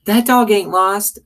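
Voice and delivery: high, loud, slow holler. Acted. Sweetie Pie hollering from inside the house, loud and sure. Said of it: "Sweetie Pie holler".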